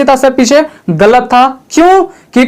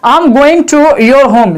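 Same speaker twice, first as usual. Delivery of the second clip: very slow, word by word; slow example; much slower than usual. Shown as a demonstration. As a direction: model the sentence slowly. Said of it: "जैसे देखिए". (धीरे-धीरे, साफ़ उदाहरण)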